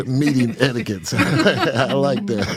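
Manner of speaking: laughing while talking. Real, not acted. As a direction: chuckle through the words. Laughing at the phrase.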